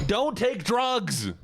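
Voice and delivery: high, drawn-out cry of warning; emphatic warning. Real, not acted. Streamer warning chat off drugs, emphatic high wail. Mock PSA outburst, then repeated calmly.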